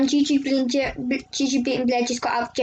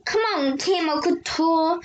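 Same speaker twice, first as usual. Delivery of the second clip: excited cheer; 4 semitones higher than usual. Retold or imitated. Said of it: "I was like".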